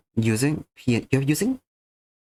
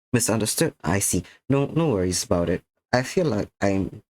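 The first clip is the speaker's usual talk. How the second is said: sleepy, slightly slurred words; tired slurring. Real, not acted. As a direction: talk fast and a bit slurred. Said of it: "tired and speaking quickly and slurring my words".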